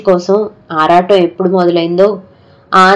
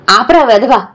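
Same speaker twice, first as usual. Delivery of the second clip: angry shout; 4 semitones higher than usual. Retold or imitated. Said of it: "అని అరిచాను". (కోపంగా అరుపు)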